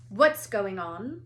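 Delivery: loud, slow, stern teacher; stern demand. Acted. McGonagall confronts the boys, stern and loud. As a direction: demand it sharply, slowly.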